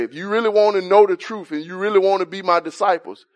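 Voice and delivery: voicing Jesus. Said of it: "he said".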